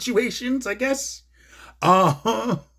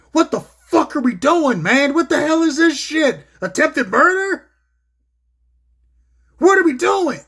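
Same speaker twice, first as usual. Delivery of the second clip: high, loud, disgusted commentator rant; imitating Jim Ross losing it; 10 semitones higher, 4 dB louder than usual. Commentator fuming on air about attempted murder angle, high loud rant. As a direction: channel an old announcer fed up on air. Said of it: "he even basically lost his shit".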